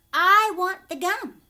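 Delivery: loud, high and insistent; demanding showily. Acted. Spoilt Violet loudly demanding the gum from Wonka. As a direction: stake her claim with a show. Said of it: "Violet said ostentatiously".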